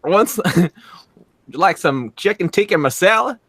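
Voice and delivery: playful put-on Indian accent; mock Indian accent, laughing. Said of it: "you gotta work on that Indian".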